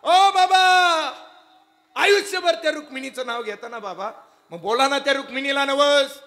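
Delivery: high, loud pleading daughter's call; daughter urging father. Acted. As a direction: cry out to him, urging him to pray. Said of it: "वंका नावाची मुलगी म्हणते".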